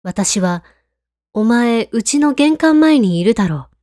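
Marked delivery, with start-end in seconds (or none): 1.3-3.7 angry. Retold or imitated. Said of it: "と反論します".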